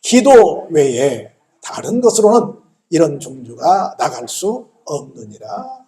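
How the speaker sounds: slow, drawn-out pronouncement; solemn scripture reading. Retold or imitated. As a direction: declare the verse weightily, starting strong. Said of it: "이르시되". (천천히 엄숙하게 선포하듯이)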